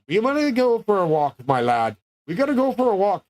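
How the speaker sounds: lilting, lightly imitated Scottish-Irish grandfather; Scottish-Irish accent. Grandpa inviting his grandson for a walk, imitated Scottish-Irish accent. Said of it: "We had that fucking accent".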